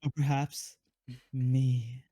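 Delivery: lightly voiced coy housewife; anime wife greeting. Housewife welcoming husband home, lightly coy. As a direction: tease it sweetly.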